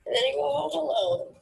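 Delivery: crying. Real, not acted. Crying while talking.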